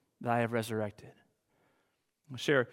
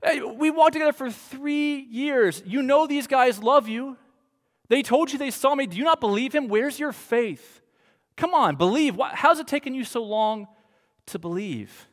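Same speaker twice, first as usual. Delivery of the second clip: a lightly voiced exasperated Jesus, higher; mock chiding, higher pitched; imagined impatient Jesus; 7 semitones higher than usual. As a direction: scold Thomas like a frustrated friend, pitched up. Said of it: "I would expect Jesus to come in and be like".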